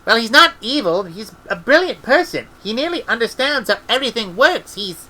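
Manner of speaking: put-on a girl defending him, close to crying; near tears. A narrator's reading. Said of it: "Esk was near to tears".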